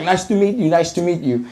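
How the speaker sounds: high, softening mock Arab accent; imitated Arab accent. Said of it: "like, in her accent".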